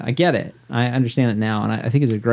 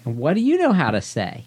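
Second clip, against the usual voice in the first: teacher question; 5 semitones higher than usual. Retold or imitated. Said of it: "And I'm gonna say".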